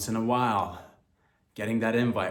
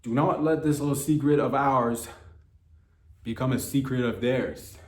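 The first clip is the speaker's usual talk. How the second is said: louder, higher hushed-up urgency; urgent plea; 3 semitones higher, 5 dB louder than usual. Real, not acted. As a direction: plead with the audience. Begging listeners to keep secret.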